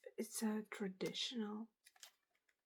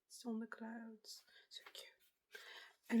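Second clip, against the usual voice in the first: ASMR whisper; slower than usual. Real, not acted. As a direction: breathe the words out gently.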